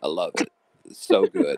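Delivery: a failed try at Yorkshire English; lame attempt at a Yorkshire accent. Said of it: "That was so lame".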